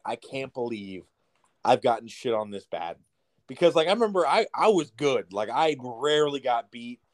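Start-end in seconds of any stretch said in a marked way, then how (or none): 0.0-3.0 retold defeat. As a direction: recount being beaten, voice sinking and slowing. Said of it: "I just felt defeated".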